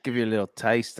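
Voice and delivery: casually slipped-in Australian accent. Shown as a demonstration. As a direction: sneak in a little taste of Australian. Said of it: "An Australian accent? Yo, d-, bro, you gotta do it".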